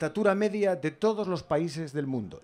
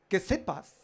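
put-on voice; 2 semitones higher, slower than usual. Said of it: "yo le pongo esta voz porque me hace más gracia".

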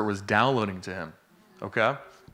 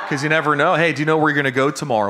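fast, louder, laughing sales pitch; laughing mock pitch; 3 semitones higher, 4 dB louder, much faster than usual. Preacher jokingly acts out witnessing to a scared passenger, laughing. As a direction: rattle it off half-laughing like a pushy evangelist.

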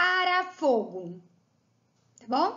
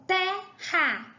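"terra" split, TER higher and strong; stress on TER; 4 semitones higher than usual. Shown as a demonstration. Teacher explaining the tonic syllable, TER stressed high in "terra". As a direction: punch the first syllable of "terra". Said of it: "O té é mais forte".

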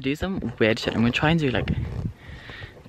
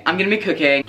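excited; 5 semitones higher, faster than usual. Real, not acted. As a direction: repeat it with a burst of excitement. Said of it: "getting flustered by all this excitement".

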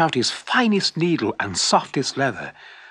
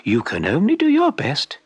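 comforting; 4 semitones higher than usual. Acted. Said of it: "she said comfortingly".

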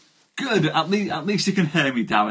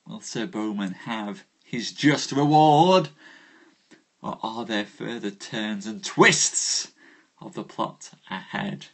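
theatrical announcer. Acted. Host welcomes viewers to tonight's tale, theatrical announcer. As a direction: swell the key words like a grand storytelling host.

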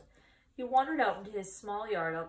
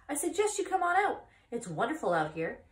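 high, loud goose coaxing; honking goose urging the pig out; 7 semitones higher, 6 dB louder than usual. Acted. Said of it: "said the goose".

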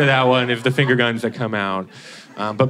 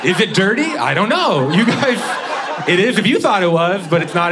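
mock innocent; 7 semitones higher, 4 dB louder than usual. Real, not acted. Defending a dirty pun.

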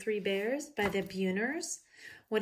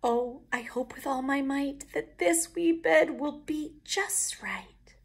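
Goldilocks voice; 6 semitones higher, 4 dB louder, slower than usual. A narrator's reading. Goldilocks speaking in story.

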